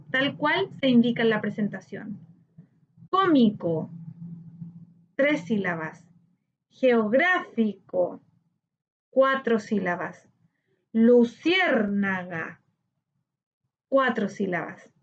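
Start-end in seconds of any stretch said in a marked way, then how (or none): 3.1-3.9 "Cómico" in separate syllables. Shown as a demonstration. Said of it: "separar por sílaba". 6.7-8.2 "Geográfico" slowly, split into syllables; teacher slowly measuring out each syllable of "Geográfico". Shown as a demonstration. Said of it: "separar por sílaba". 10.9-12.6 "Luciérnaga" slowly, split into syllables; teacher slowly measuring out each syllable of "Luciérnaga". Shown as a demonstration. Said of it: "separar por sílaba".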